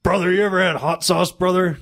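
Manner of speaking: mock bro patter; Randolph. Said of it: "And Randolph's like".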